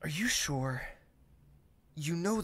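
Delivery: hushed, gentle question. Acted. Prince whispering concern to the maid. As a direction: lean in and whisper it.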